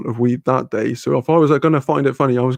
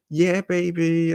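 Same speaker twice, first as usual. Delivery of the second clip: slow, drawn-out, higher mock Austin Powers; Austin Powers catchphrase; 5 semitones higher, much slower than usual. Quoting the movie to chat, slow mock Austin Powers. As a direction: ham up the famous catchphrase, slowly. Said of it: "Americans thought we all talked like that".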